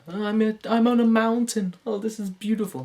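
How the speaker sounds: high, airy dream voice; dreamy wonder. Pretend. Dreamer admiring the view from a mountain, high and airy. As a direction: marvel like a child on a mountaintop.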